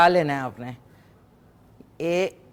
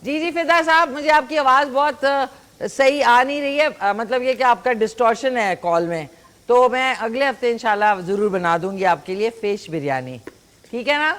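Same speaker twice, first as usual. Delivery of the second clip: raised voice on a bad line; 3 semitones higher than usual. Real, not acted. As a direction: speak up over a crackly phone line. آپ کی آواز مجھے بالکل نہیں سمجھ آ رہی. (خراب لائن پر اونچی آواز میں بات)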